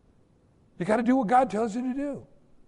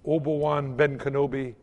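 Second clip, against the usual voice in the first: mock King James prayer; 5 semitones lower than usual. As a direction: mimic a pompous old-fashioned prayer. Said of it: "pray in sixteenth century King James English".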